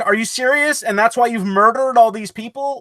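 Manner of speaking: high-pitched mock disbelief; incredulous. Friend voices the heroine answering the killer, incredulous. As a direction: throw it back at the killer, incredulous.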